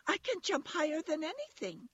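very high little rabbit voice; boasting toy rabbit. A narrator's reading. Toy rabbit boasts to the wild rabbits in a high little voice. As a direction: boast in a small, high pipe. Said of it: "said the little rabbit".

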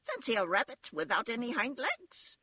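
high-voiced rabbit jeer; mocking wild rabbit. A narrator's reading. Wild rabbit mocks the toy to the others, high-voiced. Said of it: "he called out".

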